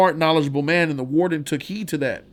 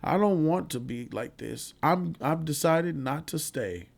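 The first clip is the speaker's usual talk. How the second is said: put-on scared old man; 6 dB quieter, slower than usual. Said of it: "he's scared".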